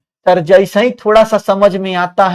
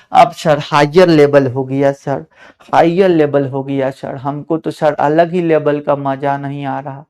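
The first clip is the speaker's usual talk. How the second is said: a hint of a lower, sulky student; whining student; 5 semitones lower than usual. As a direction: grumble it like a bored pupil. Student complaining to the teacher.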